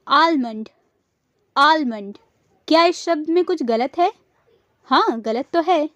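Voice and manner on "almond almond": "Almond" with the l sounded, AAL-mund; wrong pronunciation. Shown as a demonstration. Teacher quizzing learners with the wrong form, "Almond" as AAL-mund. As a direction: pronounce the l in "Almond". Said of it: "ना कि आलमंड".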